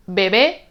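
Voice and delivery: "bebé" stressed on the final bé; stress on last syllable. Shown as a demonstration. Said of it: "tienen acento en la última sílaba".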